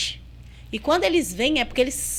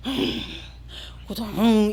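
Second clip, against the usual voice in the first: imitated demon grunt; 3 semitones lower than usual. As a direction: grunt like a seated, cornered beast. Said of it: "Esse bicho sentou e ficou assim". (grunhido de bicho, imitado)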